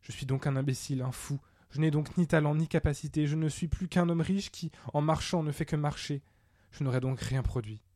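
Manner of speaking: understated lament, pitch lifting midway then sinking; mildly acted self-pity; tearful despair. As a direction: bewail failure with a touch of tears. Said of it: "Il s'assit et pleura".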